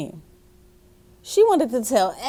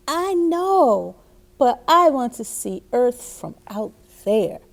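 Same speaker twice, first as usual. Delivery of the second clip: put-on little girl voice; 2 semitones higher than usual. May answering her mother.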